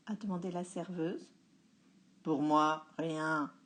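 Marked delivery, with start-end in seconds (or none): 2.2-3.5 disgusted. A narrator's reading. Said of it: "avec une mine dégoûtée".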